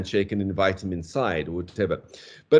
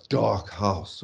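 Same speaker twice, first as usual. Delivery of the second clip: mild dolorous stress. Shown as a demonstration. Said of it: "the thought of the dead suddenly come back".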